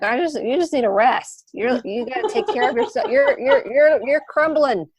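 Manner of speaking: an inner part begging her to stop and rest; caring inner voice. Retold or imitated. Her caring inner part, pleading loudly. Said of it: "the one part's like".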